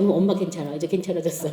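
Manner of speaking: low, soft reassurance; imitated composed mother, quiet and low; reassuring. Mother reassures children after praying.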